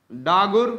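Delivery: डागुर with a u sound, daa-gur, rising; spoken Dagur. Shown as a demonstration. Teacher giving the spoken form डागुर, daa-gur, rising. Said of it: "पढ़ने के लिए डागर बोला जाता है".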